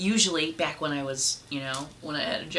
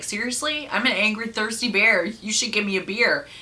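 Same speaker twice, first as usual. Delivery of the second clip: angry bear; 5 semitones higher than usual. Acted. Bear demanding beer in joke.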